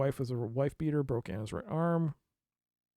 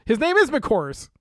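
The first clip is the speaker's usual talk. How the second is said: amused disbelief; 9 semitones higher, 10 dB louder, slower than usual. Real, not acted. Amused at silly name.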